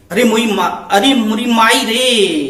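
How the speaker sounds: mock frightened cry. Shown as a demonstration. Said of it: "डर जाता है तो कहता है".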